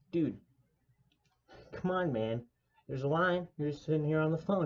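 a customer pressing a clerk about the line; impatient complaint. Retold or imitated. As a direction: hurry him up, a touch fast and loud.

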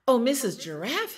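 high, loud little bird's call; crying out. A narrator's reading. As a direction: call out eagerly as a baby bird. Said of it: "he cried".

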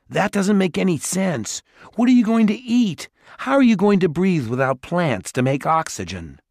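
high, loud, indignant questions; incredulous. A narrator's reading. Simon arguing with the Dwarf Lord, high and indignant. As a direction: poke holes in his plan, outraged.

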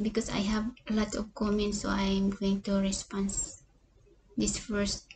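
whispered, breathy excuse; hushed own reply. Retold or imitated. Her own reply, quoted.

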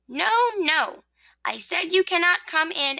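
high-pitched firm refusal; insistent rosebud. Acted. Rosebud refusing the sun, insistent.

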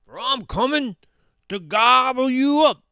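loud, high troll threat. A narrator's reading. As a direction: build to a roaring threat to eat them. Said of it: "said the troll".

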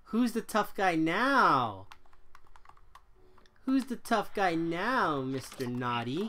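hammed-up bully taunt; mock taunt. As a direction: gloat over a beaten foe. Taunting a game enemy.

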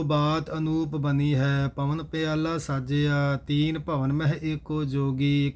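steady, measured chanted reading of scripture; gurbani recitation. Acted. Teacher recites verses for the class in steady recitation. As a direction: recite each line evenly and devoutly.

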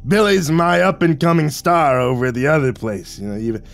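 lightly voiced bragging mobster; gangster boss Vic. Vic praising his rising star, lightly bragging. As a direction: talk up the protégé.

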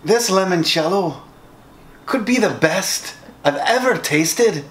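a light put-on Scottish accent; taste-test in a Scottish brogue. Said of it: "in a Scottish accent".

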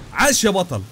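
usual speaking voice

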